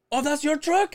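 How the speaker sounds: high-pitched surprised question; mock astonished query; imitated surprise. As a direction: react as if just realizing, voice way up. Acting out the guy's surprised reaction.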